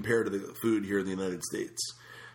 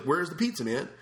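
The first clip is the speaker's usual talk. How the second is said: raised, annoyed demand; pissed demand; 6 semitones higher than usual. Retold or imitated. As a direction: snap at the waiter. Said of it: "I got so pissed".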